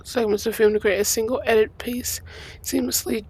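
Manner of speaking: slightly hoarse, strained voice; losing voice. Real, not acted. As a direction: voice giving out, a bit hoarse. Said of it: "I'm losing my voice".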